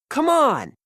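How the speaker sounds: rally everyone to move now; eager yell. A narrator's reading. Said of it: "yells Peter".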